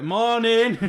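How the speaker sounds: sudden high, loud "Morning!"; too-loud greeting. Retold or imitated. Greeting dog walkers with headphones on, loud high call. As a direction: blurt it like you can't hear yourself. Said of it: "won't know how loud my voice is".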